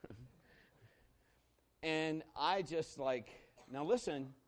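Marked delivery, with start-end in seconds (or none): 0.1-0.2 put-on high little child's voice, puzzled; worried kids. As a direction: play the small kids looking back at dad. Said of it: "they're looking back like".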